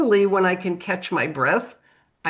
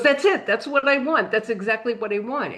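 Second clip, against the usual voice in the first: excited; 4 semitones higher than usual. Retold or imitated. Customer excited seeing the sketch.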